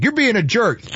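very high, prissy put-on voice; mock a dainty drinker scolding a friend; high-pitched, hammed-up whiny complaint; prissy straw-sipper. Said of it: "holding on to a vodka Sprite".

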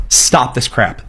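ordinary talk

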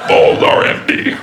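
slow breathy whisper. Pretend. Mock announcement, slowed.

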